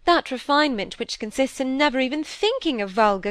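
a hint of a fussy genteel lady scolding; lightly voiced prim stepmother lecturing; prim lecture. Mrs Gibson lectures on refinement.

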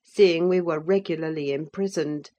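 ordinary delivery, nothing marked

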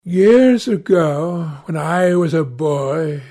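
lightly voiced young man, recalling bitterly; accusing young Dorian. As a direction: begin a grave reproach as Dorian.

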